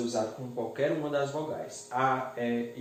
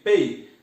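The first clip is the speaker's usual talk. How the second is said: "Pei" hit much louder as the strong syllable; stressed syllable; 3 semitones higher, 10 dB louder than usual. Shown as a demonstration. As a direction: punch "Pei" loud to show the tonic syllable. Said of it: "Onde que é o acento de respeito?".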